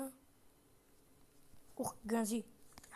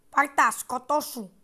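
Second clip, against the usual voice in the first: slow, louder taunt; 5 dB louder, much slower than usual. Real, not acted. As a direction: drag it out to mock. Κοροϊδεύει τον εχθρό. (αργή, δυνατή κοροϊδία)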